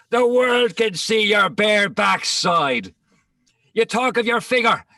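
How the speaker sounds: jeering shout broken by laughter; laughing jeer. Acted. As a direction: crow it out through laughter to humiliate her. Mocking rival in verse quarrel.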